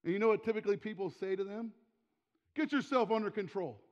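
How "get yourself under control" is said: raised-voice mock reprimand; firm, exasperated retold order; stern scolding. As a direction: imitate someone telling off a hysterical person. Imitating people scolding a hysterical person.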